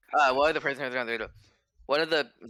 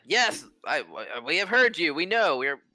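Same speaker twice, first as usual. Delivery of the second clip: a harried mayor babbling excuses, fast at the end; pitched-up official fending off the crowd; flustered town lord; 8 semitones higher, faster than usual. Acted. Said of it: "he's like".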